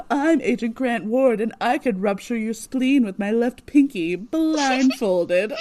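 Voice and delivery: laughing mock tough guy; lightly voiced macho agent brag; Simmons doing Ward. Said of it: "she does the same impression".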